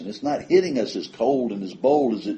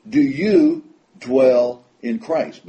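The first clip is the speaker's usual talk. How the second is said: emphatic question; 5 semitones higher, 7 dB louder, much slower than usual. Acted. Preacher challenges the congregation.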